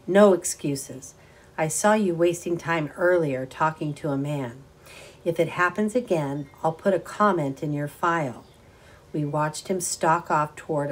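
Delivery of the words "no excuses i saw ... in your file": stern scolding. Acted. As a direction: scold her like a petty boss. Stern manager scolding employee.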